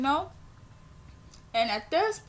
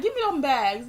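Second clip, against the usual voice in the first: retold annoyance; 2 semitones higher, 5 dB louder than usual. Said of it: "I was so pissed".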